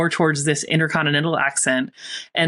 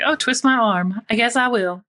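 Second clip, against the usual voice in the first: higher, hammed-up fake reluctance, as if forced into a treat; mock reluctant; 6 semitones higher than usual. Bartender to customers buying her drinks, mock reluctant. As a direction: pretend to be talked into a drink.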